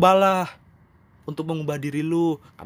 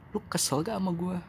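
softer, gentler take of the question, "lu" leaned on; softer asking; 4 semitones higher, 5 dB quieter than usual. Pretend. Host gently asks the listener if they're upset, softly. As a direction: ask it quietly, almost checking in. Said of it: "Biarkan gua yang nanya ke lu".

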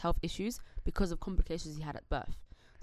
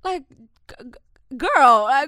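exasperated; 5 semitones higher, 11 dB louder, much slower than usual. Real, not acted. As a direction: sigh it out in disbelief. Exasperated girl.

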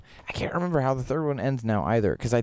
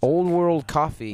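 gushing; 6 semitones higher, 5 dB louder than usual. Acted. Gushing about a favourite café.

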